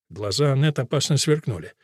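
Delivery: ordinary delivery, nothing marked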